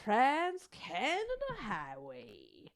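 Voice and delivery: slow, stretched transatlantic "Trans-Canada Highway"; transatlantic accent. Shown as a demonstration. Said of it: "In a transatlantic accent".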